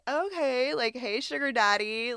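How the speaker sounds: playful mock flirting; flirty. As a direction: bat your eyelashes with the voice. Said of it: "eyes are being batted".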